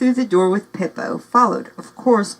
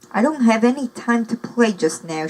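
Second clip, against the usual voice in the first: calling through a door; 4 semitones higher than usual. Acted. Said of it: "she called through the closed door".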